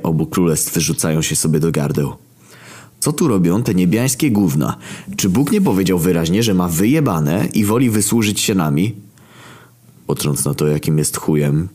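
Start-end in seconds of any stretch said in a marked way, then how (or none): 3.0-8.9 higher, swinging pitch of outrage; indignant rant. Acted. Death complaining about the heavenly intruders, indignant. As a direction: complain indignantly with leaping intonation.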